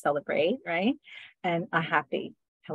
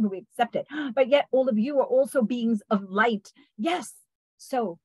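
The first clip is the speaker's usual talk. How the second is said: channeled beings of light; 3 semitones higher than usual. Acted. Healer channels the beings of light to bless listeners, solemn otherworldly voice. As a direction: speak as light beings addressing their beloved ones.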